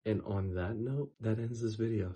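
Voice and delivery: hoarse, worn-out voice; a voice that's losing out. Real, not acted. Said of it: "Sorry, I'm losing my voice".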